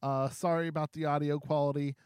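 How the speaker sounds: quiet, muffled backup recording; low quality stream. Real, not acted. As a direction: sounds like a weak backup mic. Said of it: "you'll be hearing my backup audio".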